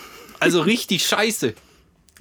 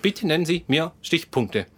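flat automated hotline voice; robot voice. Retold or imitated. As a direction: read like a robot menu. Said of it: "ein Roboter dran".

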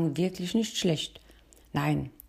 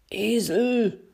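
raised, delighted call; enthusiastic call; 5 semitones higher, 3 dB louder than usual. A narrator's reading. Bear cheers the donkey after rehearsal, raised. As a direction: call out with glee. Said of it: "rief der Bär nach der Probe dem Esel begeistert zu".

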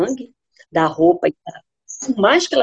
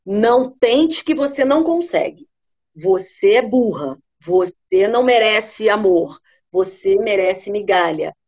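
slow, cold inner critic; a slow voice that keeps her down; slower than usual. Acted. A hint of the inner predator voice speaking to her, slow. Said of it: "aquela voz que fala assim".

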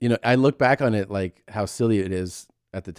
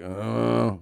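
imitated moan. Injured man stirring in field, imitated moan. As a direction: moan like someone coming to, lightly. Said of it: "like, he moans".

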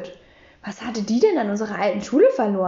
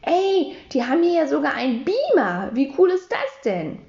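put-on a boy calling out, thrilled by what he found; mild excited exclaim, pitch up on Ey; 4 semitones higher than usual. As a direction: call out in lightly voiced delight. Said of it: "und gerufen".

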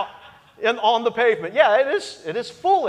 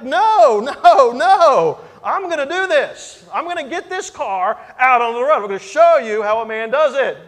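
much louder, higher, digging in; defiant shout; 7 semitones higher, 9 dB louder than usual. Retold or imitated. Husband shouts back at his wife that he'll get the car out, defiant yell. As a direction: refuse her, loud and determined.

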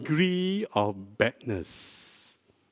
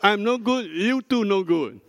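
teasing sing-song; 6 semitones higher than usual. Shown as a demonstration.

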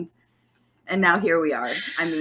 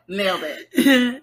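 drawn-out praise; slower than usual. Real, not acted. Teasing praise after the drill.

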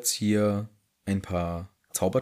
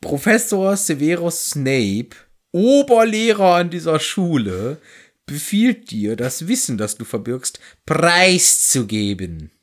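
slow, higher, self-important spell; pompous incantation; 4 semitones higher than usual. Retold or imitated. Snape orders the map to reveal itself, in a lightly pompous mock voice. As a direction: puff yourself up like a grand professor. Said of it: "versucht's noch mal mit dem Zauberspruch".

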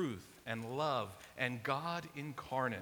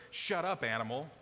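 harsh; 4 dB louder than usual. Shown as a demonstration. Jesus telling the demon to shut up, harsh. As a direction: bark it at the animal. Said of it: "It's really kind of harsh".

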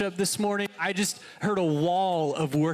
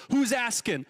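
New England accent; 5 semitones higher than usual. Shown as a demonstration. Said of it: "in, like, a New England accent".

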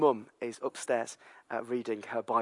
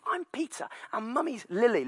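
put-on toddler voice; 9 semitones higher than usual. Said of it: "And he says".

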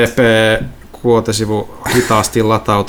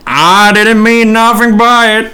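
scared clerk; 7 semitones higher than usual. Acted. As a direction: plead anxiously, voice up high. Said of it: "Kuulosta pelokkaalta".

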